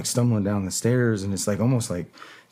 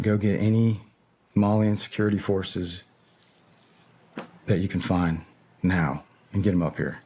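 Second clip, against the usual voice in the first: retold order said very calmly. Soldier sending for Malian security forces, very calmly. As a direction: give the order evenly, without yelling. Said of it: "I said that very calmly just now".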